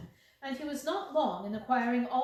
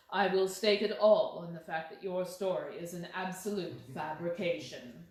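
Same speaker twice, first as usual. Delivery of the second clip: calm insistent Holmes; 4 semitones lower than usual. Acted. Holmes accuses the story.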